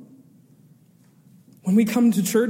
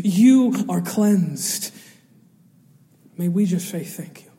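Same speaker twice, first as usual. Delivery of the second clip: solemn. Acted. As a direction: settle them into prayer. Closing prayer cue.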